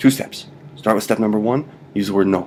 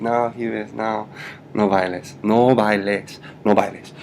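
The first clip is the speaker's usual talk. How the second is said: mock dismay; slower than usual. Shown as a demonstration. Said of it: "astounded at my dance moves".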